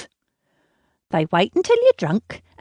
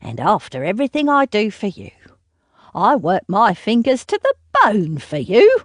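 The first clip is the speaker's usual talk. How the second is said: sneering mother; 2 semitones higher than usual. Acted. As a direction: sneer at her, then rant. Mother mocks and scolds daughter.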